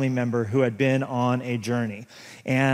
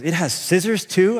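put-on amazed toddler son; 4 semitones higher than usual. Son voiced in story.

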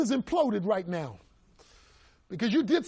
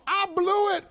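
anguished confession; 11 semitones higher, 4 dB louder than usual. Acted. Peter confessing failure.

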